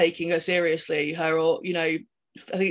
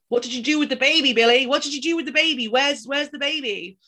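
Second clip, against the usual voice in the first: high, fast mock woman's voice; weird woman voice; 6 semitones higher than usual. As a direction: imitate the killer's shrill mother voice. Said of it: "his weird woman voice".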